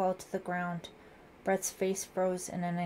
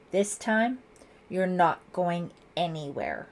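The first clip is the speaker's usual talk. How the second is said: threatening; 6 dB louder than usual. Acted. Lieutenant threatening the suspect.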